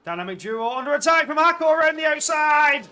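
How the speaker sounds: loud, high, excited race call; excited commentary. Real, not acted. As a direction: call the overtake with rising excitement.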